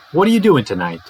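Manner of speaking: "What are you doing tonight?" as "whadda yuh doing tonight"; conversational weak forms. Shown as a demonstration. Teacher acts example question to a friend, weak forms. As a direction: run ARE and YOU together, reduced, in a casual question. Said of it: "we got something like".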